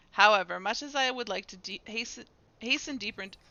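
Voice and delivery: loud rallying start, then measured and formal; dramatic dialogue reading. Acted. Leader tells Eric not to lose heart, dramatic reading. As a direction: read it as a leader heartening a companion. Reads game dialogue in character.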